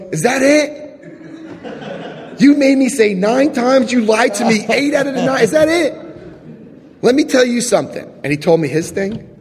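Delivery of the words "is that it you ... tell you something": much higher, laughing incredulous question; mock the small confession, laughing; amused disbelief. Sponsor scoffing at his confession, high amused disbelief.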